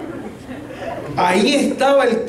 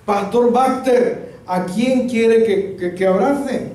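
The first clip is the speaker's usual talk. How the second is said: puzzled; 5 semitones higher, slower than usual. Retold or imitated. Puzzled question to the pastor, retold.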